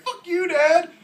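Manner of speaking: high, loud bratty yell; hammed-up teenage outburst; defiant son. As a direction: shriek back at Dad as a rebellious kid.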